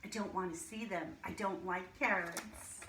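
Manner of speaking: lively storybook reading to a class; reading to children. Acted. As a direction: read it like a teacher sharing a picture book. Reads a picture book aloud to class.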